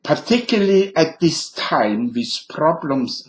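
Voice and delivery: mild mock German accent; Schultz German accent. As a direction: read it as a bumbling German sergeant. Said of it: "I'll end it with Schultz's German accent".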